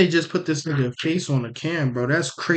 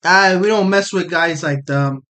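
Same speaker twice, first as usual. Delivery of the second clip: put-on Toronto roadman accent. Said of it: "The Toronto accent's terrible".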